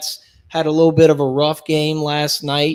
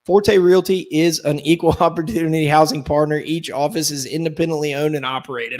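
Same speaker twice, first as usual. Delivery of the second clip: legal disclaimer. Acted. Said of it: "the obligatory statement".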